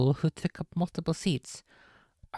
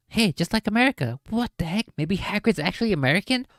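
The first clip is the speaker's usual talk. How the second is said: excited joking; 5 semitones higher, 4 dB louder, faster than usual. Real, not acted. Joking aside.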